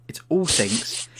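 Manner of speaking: whispered, stunned echo; whispered repeat. Pretend. Repeating it to friends in a hushed, stunned whisper. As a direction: breathe the words like a secret. Disbelief at a room of sinks.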